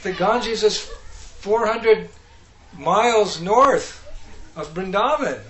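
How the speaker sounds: high, loud mock squeal, words stretched out; hammed-up high-pitched complaint; squealed protest. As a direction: squeal the objection in drawn-out words. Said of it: "He squealed".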